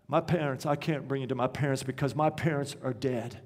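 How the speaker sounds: soft, low, halting grief; tearful boy, understated. Retold or imitated. Crying pupil confesses to his teacher, understated sorrow. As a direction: quietly retell a crying boy's confession. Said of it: "he begins to cry".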